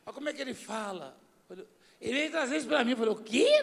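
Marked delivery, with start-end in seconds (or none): 3.1-3.6 sudden high, louder squawk of disbelief; retold outburst of disbelief; astonished. Pastor recalls hearing the deputy's story, astonished.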